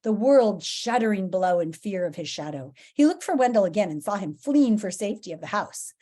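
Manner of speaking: dramatic, expressive storybook reading; story narration. A narrator's reading. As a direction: read the adventure with big emphasis. Reads the story aloud.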